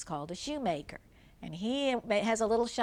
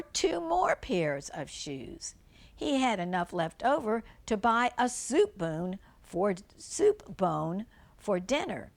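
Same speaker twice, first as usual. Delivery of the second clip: gentle storybook read-aloud; reading a fairy tale to young children; story narration. Acted. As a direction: read it like a bedtime tale for kids.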